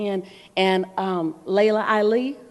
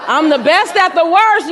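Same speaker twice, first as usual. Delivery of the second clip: laughing; 7 semitones higher, 9 dB louder than usual. Real, not acted. Punchline with laughter.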